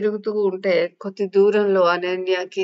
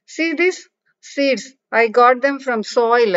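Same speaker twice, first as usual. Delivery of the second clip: put-on excited child; 6 semitones higher, 4 dB louder, much slower than usual. Child shows seeds excitedly.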